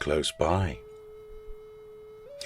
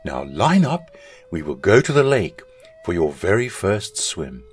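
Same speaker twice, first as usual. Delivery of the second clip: stern mother; 3 semitones higher, 4 dB louder than usual. Acted. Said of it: "in a stern voice".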